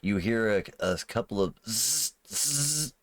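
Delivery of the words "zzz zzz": imitated electrical zzz; short-circuit buzzing. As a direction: buzz like a shorting gadget. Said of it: "sounds as it begins short-circuiting".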